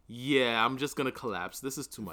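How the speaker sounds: low, soft mock-defeated voice; weary robot giving up. Co-host retells the robot quitting its work, weary and low. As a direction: give up quietly, like an exhausted robot.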